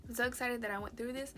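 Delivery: quick retake, stress on so; plain. Real, not acted. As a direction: rush through the retake. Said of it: "I got the hiccups".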